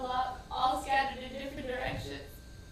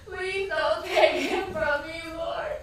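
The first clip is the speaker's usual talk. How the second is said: pleading prayer; 2 semitones higher, slower than usual. Retold or imitated. Begging God for son's life.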